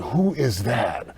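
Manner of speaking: slow, hushed wonder; drawn out, impressed; slow awed question. Retold or imitated. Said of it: "They're like".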